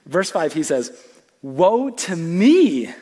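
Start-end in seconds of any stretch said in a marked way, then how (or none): 1.4-2.9 dramatic reading. Acted. Reading Isaiah's cry aloud.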